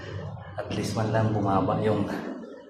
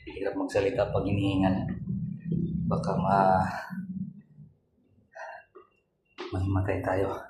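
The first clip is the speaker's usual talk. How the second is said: winded, panting between words; talking while gasping for air; out of breath; 4 dB quieter than usual. Real, not acted. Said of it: "Hinihingal ako".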